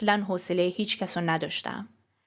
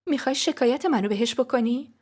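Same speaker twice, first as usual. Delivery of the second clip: higher, timid asking; a touch of fear, pitched up; fearful question; 5 semitones higher than usual. Acted. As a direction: ask it afraid of the answer. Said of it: "با ترس پرسیدم".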